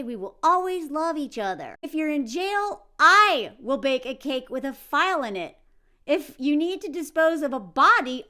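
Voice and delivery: hint of an overbearing mom reciting vows; mock doting mother. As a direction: read it like a smothering mother pledging anything. Reads the mother's letter aloud.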